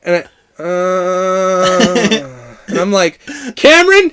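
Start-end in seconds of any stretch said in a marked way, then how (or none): 0.6-2.6 long, drawn-out groan; imitated sleep moan. Imitating his friend moaning on the bedroom floor, long mock moan. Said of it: "these are way too long moans". 3.6-4.1 high, loud, mock exasperated call. Sleepless friend silently calling out the moaner, mock exasperation.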